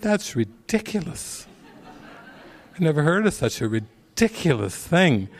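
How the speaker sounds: high, laughing disbelief at a silly name; laughing mock outrage. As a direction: laugh it off as ridiculous.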